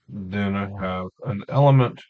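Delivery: talking while chewing gum; words mushy around a wad of gum. Real, not acted. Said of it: "I can't talk and chew gum".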